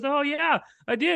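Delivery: high-pitched mock casual reply; imitated woman. Stranger admits playing the ball, high imitated voice. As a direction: lift the voice high for her answer.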